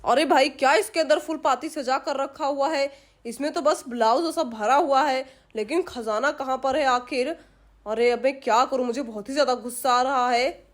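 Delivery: mildly exasperated burglar grumbling to himself; a touch of a frustrated thief searching; lightly voiced thief, frustrated.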